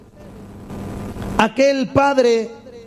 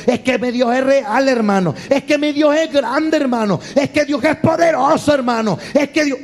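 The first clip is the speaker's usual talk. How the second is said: exalting God; 2 semitones higher than usual. Retold or imitated. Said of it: "allí vive exaltando a Dios usted".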